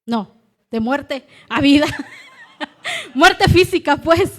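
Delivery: se ríe de su error; corrígete entre risas; riendo. Real, not acted. Se corrige riendo. (riéndose de su propio error)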